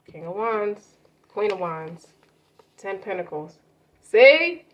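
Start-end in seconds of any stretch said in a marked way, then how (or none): 4.0-4.6 excited exclaim. Real, not acted. Excited at cards confirming reading.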